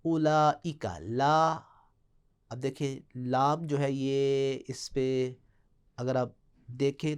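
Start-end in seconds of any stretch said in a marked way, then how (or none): 0.0-1.6 اولئک spelled out, then لا pulled apart; broken down. Shown as a demonstration. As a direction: split اولئک into its parts. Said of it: "پہلے اس کو کھولیں". (کلمہ کھول کر)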